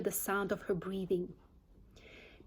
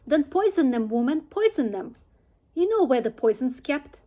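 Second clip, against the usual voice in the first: a lightly voiced, impatient Mrs Bean, louder; bossy farmer's wife; 3 semitones higher, 6 dB louder than usual. Mrs Bean calling down to Mabel in the cellar, impatient and bossy. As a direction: snap orders down to the cellar, hurrying the maid.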